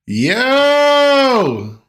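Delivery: high shocked yell; surprised shout. Real, not acted. Reacting to the photo on screen.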